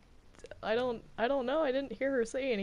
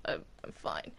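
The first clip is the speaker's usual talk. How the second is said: whispered, barely there; shaken whisper; 9 dB quieter than usual. Acted. Alice to her lawyer after the threat, a shaken whisper. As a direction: whisper it, too shaken to speak up. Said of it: "Are you okay?".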